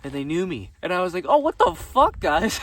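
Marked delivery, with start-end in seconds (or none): 1.3-2.6 surprised. Retold or imitated. Surprised friends recognized him.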